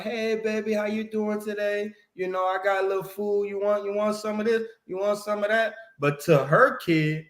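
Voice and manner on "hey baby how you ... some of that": higher, sugary auntie offering food; sweet auntie. Retold or imitated. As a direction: coo at a visiting kid. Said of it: "she always like".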